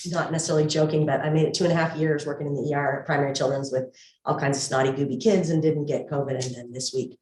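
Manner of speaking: muffled speech through a mask; talking behind a medical mask; through a face mask. Real, not acted. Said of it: "hopefully you can hear me through the mask okay".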